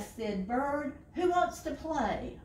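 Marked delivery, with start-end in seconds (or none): 1.1-2.4 high, loud eager question; eager call. A narrator's reading. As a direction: call everyone to play. Bird eager after waking.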